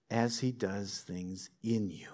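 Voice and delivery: whispered. Acted. Pastor to the congregation, hushed whisper. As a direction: drop to a whisper on the point. Pastor softens the closing point.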